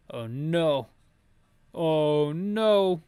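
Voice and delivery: normal talking voice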